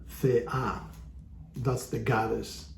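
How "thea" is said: Thea with the final A stressed; stress on last syllable. Shown as a demonstration. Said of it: "so the accent is on the A".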